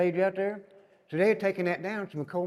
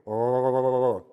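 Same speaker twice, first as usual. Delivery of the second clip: mock pain groan; 4 semitones lower, 6 dB louder than usual. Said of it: "'cause it hurt".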